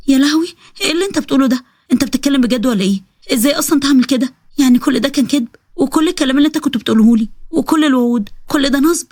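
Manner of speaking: mildly shocked, hurt protest; a touch of dismayed disbelief. Acted. Betrayed woman confronting her blackmailing lover, understated shocked disbelief.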